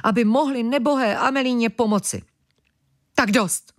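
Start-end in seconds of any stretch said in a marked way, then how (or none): 3.1-3.7 shout. Acted. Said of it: "vykřikl Mlask".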